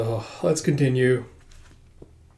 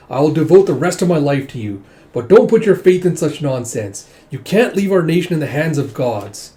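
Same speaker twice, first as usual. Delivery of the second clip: louder, firm lecturing; stern rebuke; 3 semitones higher, 5 dB louder than usual. Retold or imitated. Prince rebuking his brother king, loud and stern. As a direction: tell him off sternly.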